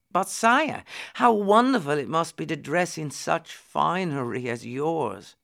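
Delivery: mildly awed, pitch starting high; wistful admiration. Acted. Tom admires the prince's fine clothes, in mild awe. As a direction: gush a little, then settle.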